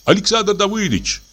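high call through the window. Acted. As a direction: call his name again into the dark. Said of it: "позвал он".

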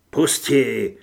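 strained hiss, last word drawn out; hissing creature. A narrator's reading. Thing inside Carlos's body refuses to be left, hissing. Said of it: "zasyčela ta věc v Carlosově těle".

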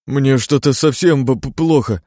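shivering so hard the words break; feverish stammer. A narrator's reading. (дрожащим голосом, заикаясь)

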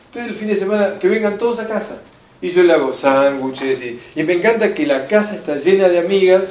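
lightly mocked doting mom, pitch lifted; mock-cheerful mother gushing over her daughter; gushing proud mother. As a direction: parody a mother bragging about her popular daughter. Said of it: "¿qué dice esta madre?".

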